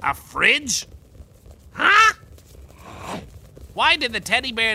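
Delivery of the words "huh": surprised. Acted. Confused pharaoh reading joke page.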